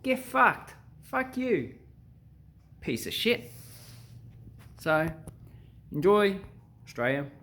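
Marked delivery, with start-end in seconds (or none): 0.0-3.5 angry retort. Retold or imitated. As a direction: snap back at a rude stranger. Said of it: "They're more likely to also respond".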